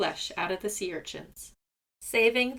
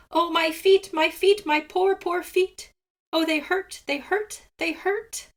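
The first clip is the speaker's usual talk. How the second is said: high, loud wailing about his feet; yelling in pain; 8 semitones higher, 4 dB louder than usual. A narrator's reading. Seagull in pain after the spines, high wailing yell. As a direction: wail it like a hurt bird. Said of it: "yelling at the top of his voice".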